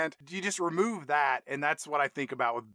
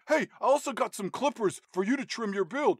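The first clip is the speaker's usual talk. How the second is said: raised mock-Scottish dad voice; Billy Connolly; 6 semitones higher than usual. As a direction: push another chore in a put-on Scottish accent. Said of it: "Billy Connolly hands Paul Walker".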